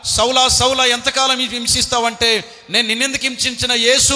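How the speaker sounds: shouted high call to Saul; voice of God calling Saul. Acted. The Lord confronting Saul on the road, shouting. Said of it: "దేవుడు అనుకున్నాడు".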